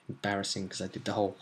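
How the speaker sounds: quick, low, soft murmur; embarrassed aside. Real, not acted. Host embarrassed after the sign-off, quiet aside. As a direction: speak low and fast, off the record.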